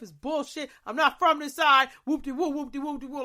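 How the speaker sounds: going off. Retold or imitated. Caller goes off on the 911 lady about the city. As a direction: unload on the operator in a rush. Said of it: "I just went off".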